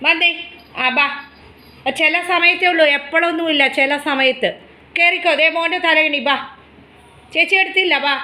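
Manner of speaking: coaxing a pet. Real, not acted. Coaxing the pet back to bed.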